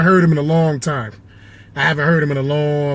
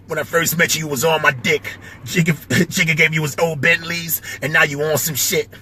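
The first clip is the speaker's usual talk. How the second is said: battle rapper impression; lightly impersonated rap line, spoken as a diss; a rapper. Rapper battling another rapper, light impression of a rapper. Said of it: "I know him a little bit".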